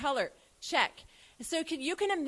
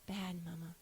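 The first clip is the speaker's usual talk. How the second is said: put-on small child answer; 7 semitones lower, 12 dB quieter than usual.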